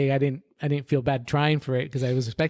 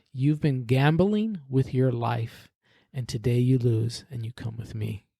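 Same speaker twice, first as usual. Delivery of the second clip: demonic voice. Retold or imitated. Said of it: "his voice changed from something human to something literally demonic".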